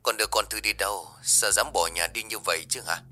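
fast, far-off voice over the phone line; angry father heard on the phone. Acted. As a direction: play the father as heard through a phone receiver.

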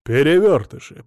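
plain reading voice

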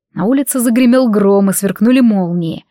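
plain reading voice

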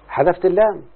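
teacher stressing اللام so students notice the dropped letter, emphatic. Shown as a demonstration. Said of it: "يا مولانا انتبه".

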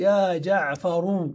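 يا جعفر with the full ر and a final u; full name slowly. Shown as a demonstration. Teacher giving the unshortened name, slowly. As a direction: draw out يا جعفرُ in full. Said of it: "لو أنك لم ترخم ماذا تقول".

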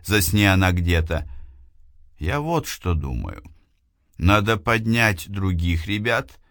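a student arguing urgently; young woman voice. Acted. Eliana voiced by narrator.

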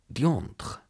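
high, indignant French oath; angry hiss. A narrator's reading. Insulted Mademoiselle Blanche cursing, angry hiss. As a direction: spit out the curse, stung. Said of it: "zischte Mademoiselle Blanche mit zornfunkelnden Augen".

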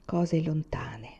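soft, low, very slow; distant musing. A narrator's reading. Son reflects on his lost past, softly and slowly. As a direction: let it sink away quietly. Son's resigned, apathetic reflection.

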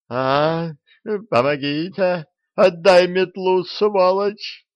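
high, loud panicked screaming; frantic screech. A narrator's reading. The owl screams in panic in the dark. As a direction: shriek for help, fighting over the broom. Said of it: "Раздался истошный вопль совы".

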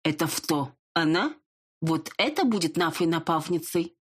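lisping stranger, lightly voiced; slushy lisp. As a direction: lisp the s sounds as f. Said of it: "незнакомый шепелявый голос". (шепелявый голос)

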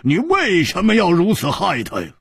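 high-pitched, pleading accusation; indignant demand. Acted. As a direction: demand an answer, voice lifted high. Demanding why he harmed his friend.

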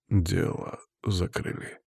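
soft, slow exhaled words; quiet slow breath of defeat. A narrator's reading. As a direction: breathe it out slowly and softly. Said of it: "выдохнул я".

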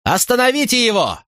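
high pleading shout; alarmed call to halt him; urgent shout. A narrator's reading. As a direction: yell it to stop the killing. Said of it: "закричал по-кельтски Катон".

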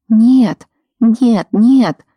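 frantic repeated denial; desperate protest. Acted. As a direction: insist desperately, rising. Rita pleading against his fear.

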